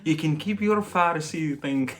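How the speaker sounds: light laughing tease. Real, not acted. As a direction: tease gently through a laugh.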